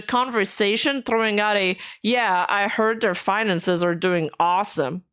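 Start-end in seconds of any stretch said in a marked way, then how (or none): 2.0-5.0 dry sarcastic quote. Retold or imitated. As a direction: say it with heavy sarcasm. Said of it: "Sarcasm included in that sentence".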